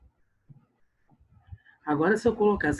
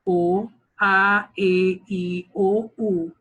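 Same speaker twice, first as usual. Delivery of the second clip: put-on São Paulo accent, vowels "O, a, e, i, o, u" each crisp and closed, called out louder; 4 semitones higher, 6 dB louder, much slower than usual. Teacher imitating how a São Paulo teacher recites vowels, louder. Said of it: "paulista fala o".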